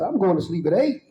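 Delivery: joking resolve, chuckling; telling his cellmate he'll sleep early, laughing; laughing declaration. Retold or imitated. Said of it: "I said".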